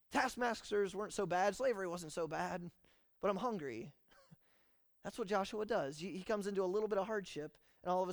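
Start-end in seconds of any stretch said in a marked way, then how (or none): 0.0-3.9 high, loud mock whine; whining. Israelites in Egypt complaining, mock whining. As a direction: grumble like a hungry complainer. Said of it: "things get hard".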